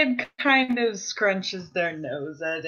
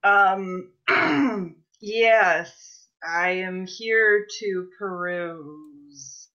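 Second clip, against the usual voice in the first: nervous customer voice; much slower than usual. Acted. Player voicing character's entrance.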